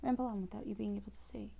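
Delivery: breathy whisper, checking with the viewers; whispered aside. Real, not acted. Checking whether viewers can see the cards, whispered. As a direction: whisper the question off to the side.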